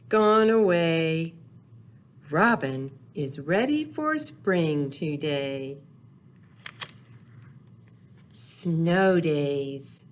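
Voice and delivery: unhurried storybook read-aloud, lingering on the rhymes; reading to children. Acted. Teacher reading Snow Days aloud to little kids, gentle storytelling. Reads picture book to children.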